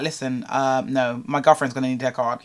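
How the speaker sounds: low, soft and measured; Lloyd, calm. Retold or imitated. Boyfriend stepping in at the bank for his girlfriend, calm. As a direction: step in quietly, keeping it calm. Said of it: "he said it in a really calm way".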